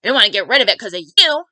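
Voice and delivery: loud, emphatic retold complaint; punched-out, exasperated wail, played for effect; mock tearful outburst. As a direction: imitate dad protesting through tears, loudly. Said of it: "He just burst into tears".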